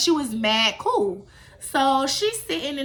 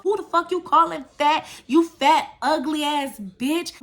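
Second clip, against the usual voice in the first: imitating an angry comeback, raised pitch; going clean off; 4 semitones higher than usual. Boy firing back at whoever insulted him on the bus, going off. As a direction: act out his indignant outburst, slowing on the final insult. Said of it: "Bobby went clean the fuck off".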